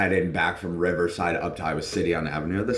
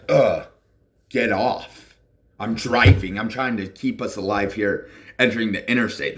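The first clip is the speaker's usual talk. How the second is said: higher, louder fed-up protest; exasperated plea; 3 semitones higher, 3 dB louder than usual. Retold or imitated. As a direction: push her off, stressed. Pushing her off while driving.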